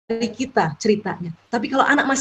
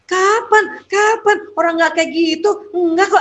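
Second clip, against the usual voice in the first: higher, indignant parent protesting its innocence; mock denial; 6 semitones higher than usual. Shown as a demonstration. Parent denying to the child that it happened, indignant higher protest. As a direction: brush it off like a defensive parent who won't admit it. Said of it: "Nggak usah juga denial".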